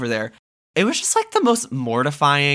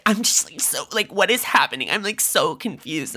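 put-on confused girl voice; 6 semitones higher than usual. Imitating girlfriend's confusion.

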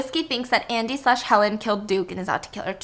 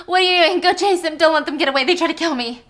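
urgent shout; 6 semitones higher, 6 dB louder than usual. Acted. Urging Blanc to chase killer.

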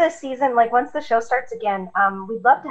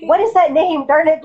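louder, exasperated quoted outburst; flustered mock grumble; mock frustration; 3 semitones higher, 5 dB louder than usual. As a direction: act out blanking on a name, exasperated. Voices a flustered parent blanking on names.

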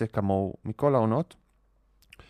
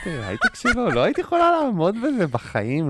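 laughing; 10 semitones higher, 6 dB louder than usual. Real, not acted. Mocking a tech-jargon date.

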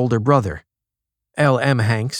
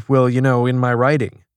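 pompous voice; 3 dB louder than usual. Retold or imitated. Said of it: "people who do it in order to say".

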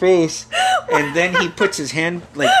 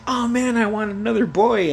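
put-on higher-pitched kid's grumble; reenacted disappointment; 8 semitones higher than usual. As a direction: complain like a let-down brother. Boy disappointed at sister news.

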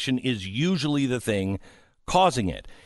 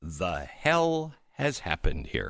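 lightly voiced shocked wife; 3 semitones lower, 4 dB quieter, slower than usual. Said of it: "she's gonna go".

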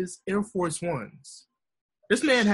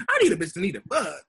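pubescent rapper. Retold or imitated. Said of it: "feel like he going through puberty".

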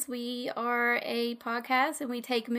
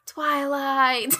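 big drawn-out announcement; dramatic reveal; 4 dB louder than usual. Real, not acted. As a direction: announce it like a grand unveiling. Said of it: "I ruined your dramatic reveal".

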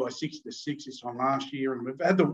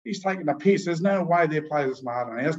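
higher, louder mock outrage; hammed-up furious denial; 5 semitones higher, 3 dB louder than usual. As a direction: refuse to believe it, hot-headed. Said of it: "Teddy was furious".

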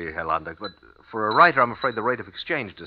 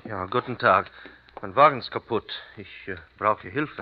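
put-on American accent German. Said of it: "My accent still doesn't fool anyone".

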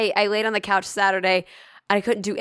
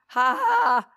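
higher, failed attempt at speech; voiceless wheezy croak; 6 semitones higher, slower than usual. Imitating her reply to someone in the elevator, wheezy. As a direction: push out sound with no voice behind it. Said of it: "Just, just like that".

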